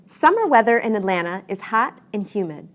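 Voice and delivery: statement rising on "hot", falling away on "humid"; rising-falling intonation. Shown as a demonstration. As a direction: let "humid" drop to show you're finished. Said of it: "your voice rises and falls".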